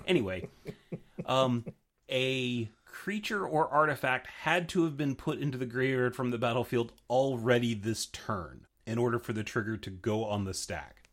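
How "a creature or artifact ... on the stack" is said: ordinary talk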